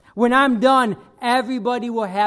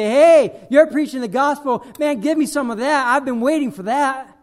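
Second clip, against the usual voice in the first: higher-pitched, eager imagined listener; mock eagerness; 3 semitones higher than usual. Imagined hearer welcoming the preacher's gospel, mock eager. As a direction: play an over-keen taker.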